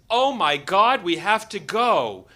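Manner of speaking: loud, urgent exclamation; mild retold alarm. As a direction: imitate a sudden panic over the time. Wife's sudden alarm over the time.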